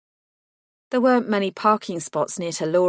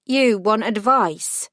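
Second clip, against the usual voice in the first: slow flat disbelief; deadpan, unimpressed; 3 semitones higher, 4 dB louder, slower than usual. Acted. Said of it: "I said flatly".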